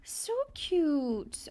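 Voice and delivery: high, drawn-out coo; real melting, high-pitched coo; cutesy gushing. Real, not acted. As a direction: squeal over something adorable. Gushing over a cute creature.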